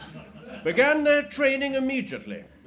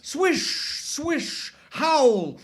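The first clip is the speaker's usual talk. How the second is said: sandstorm noises; 3 semitones higher, much slower than usual. Acted. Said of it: "am playing the sandstorm".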